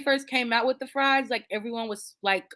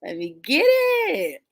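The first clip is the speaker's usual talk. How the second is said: craving self-quote. Retold or imitated. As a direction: savour it like a treat you can't resist. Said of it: "I be like".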